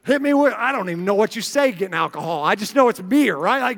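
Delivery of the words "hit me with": put-on higher, louder party-girl voice; mock a college girl ordering drinks; loud imitated party girl. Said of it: "they're like".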